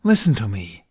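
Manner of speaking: loud sharp command; snapped. A narrator's reading. Dragon cutting off Hiccup's joke, a loud sharp snap. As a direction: snap at him to listen. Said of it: "he snapped".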